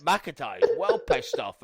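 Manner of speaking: a Scottish dad impressed by a wrestler; Scottish accent. Retold or imitated. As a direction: drag it out in your dad's Scottish accent. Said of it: "So I can get the accent".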